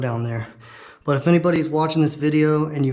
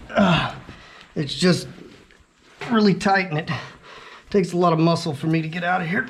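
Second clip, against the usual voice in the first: effort grunt; 3 semitones higher than usual. Real, not acted. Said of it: "bear with me with all the grunting".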